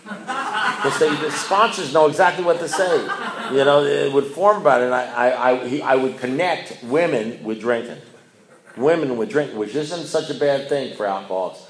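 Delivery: high, loud laughing talk; can't stop laughing while telling it; laughing loudly at the sponsor's line. Real, not acted. Laughing retelling sponsor's jab.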